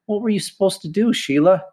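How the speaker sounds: high, testing question to a pupil; coach's quizzing. Acted.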